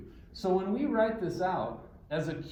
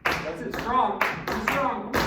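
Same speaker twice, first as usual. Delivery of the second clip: raised, higher coaching voice; calling out encouragement; 6 semitones higher, 6 dB louder, slower than usual. Real, not acted. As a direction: urge the group on over the clapping. Urging group over their clapping.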